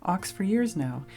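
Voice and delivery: a big rogue crying his heart out; blubbering bandit. Acted. Bandit tells about the Ox.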